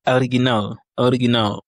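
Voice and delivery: original in Russian, first O read as A; Russian pronunciation. Shown as a demonstration. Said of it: "le O se lit A".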